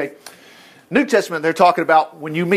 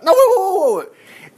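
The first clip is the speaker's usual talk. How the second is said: urgent interruption; 13 semitones higher, 4 dB louder, slower than usual. Acted. Cutting off an imagined complaint.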